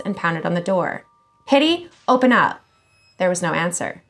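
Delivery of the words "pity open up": calling out. A narrator's reading. Pounding on friend's door, calling.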